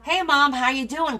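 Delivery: high, chirpy mock phone hello; put-on sing-out greeting; dutiful daughter's greeting. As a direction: imitate a routine check-in call to mom. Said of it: "do the".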